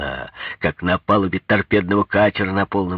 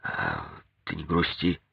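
gentle comforting; 9 dB quieter than usual. A narrator's reading. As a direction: softly console her. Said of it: "утешать".

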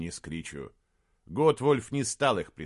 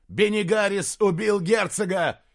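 loud, high outraged shout; shouted accusation; 11 semitones higher, 8 dB louder than usual. Acted. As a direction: shout the betrayal. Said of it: "крикнул Диарнот". (Диарнот кричит принцу об измене)

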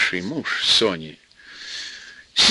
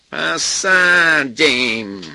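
trembling voice; 4 semitones higher, 3 dB louder, much slower than usual. Acted. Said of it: "с дрожью в голосе пообещала".

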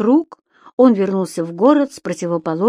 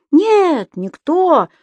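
much higher creature voice; Субастик; 9 semitones higher, 4 dB louder, much slower than usual. A narrator's reading. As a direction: reassure brightly, high. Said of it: "заверил его Субастик". (высокий голосок Субастика)

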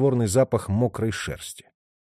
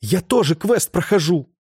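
higher, louder desperate cry; crying out, pitched up; shouting; 7 semitones higher, 3 dB louder than usual. A narrator's reading. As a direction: yell it in his face. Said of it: "выкрикнула Липа ему в лицо".

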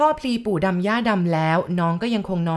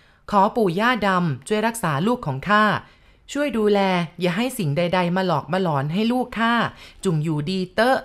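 spoken aloud prayer. Acted. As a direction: call on the guardian spirits solemnly. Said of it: "แล้วก็พูดดังๆ".

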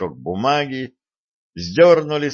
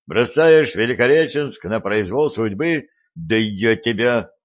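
angry; 3 semitones higher than usual. Acted. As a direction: rage at the traitor. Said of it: "от разбушевавшегося сплетника".

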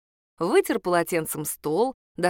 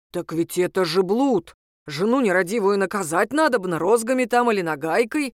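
a self-righteous man stewing in rage; angry. Acted. Ex-husband demanding his wife be punished, angry. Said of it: "злился Сергей".

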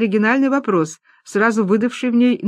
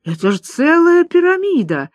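high, loud amazement; Лиза marveling at the chips, high and loud; delighted exclamation; 10 semitones higher, 4 dB louder than usual. Acted. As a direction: gasp at the pile of chips. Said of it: "восхищённо воскликнула Лиза".

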